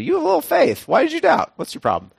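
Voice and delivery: high, sharp mock-stern rebuke; hammed-up scolding Jesus. Jesus scolding Peter seriously, hammed-up stern rebuke. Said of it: "look at him really seriously".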